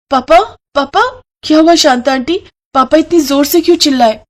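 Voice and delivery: frightened daughter asking; worried young girl. Acted.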